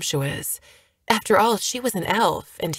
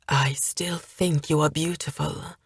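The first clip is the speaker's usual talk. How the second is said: tender whisper. Acted. Hale gently whispers to the wounded elf, tender. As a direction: whisper it gently to comfort her.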